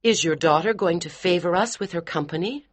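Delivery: a touch of sarcasm, high and cool; sarcastic hostess. Acted. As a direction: needle her politely. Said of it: "her sarcasm".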